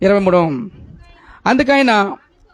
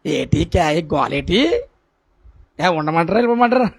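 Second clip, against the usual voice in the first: lightly voiced irritated neighbour, a bit lower; grumbling neighbour; 3 semitones lower than usual. Neighbour next door complaining about someone praying, lightly voiced and grumbling. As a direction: imitate a grumpy neighbour complaining about the noise. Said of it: "ఇంటి పక్కన ఎలాగ ఉంటుంది".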